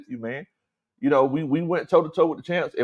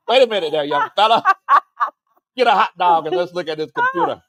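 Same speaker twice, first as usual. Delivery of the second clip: put-on old man voice; 3 semitones higher than usual. Playing an old owner, laughing.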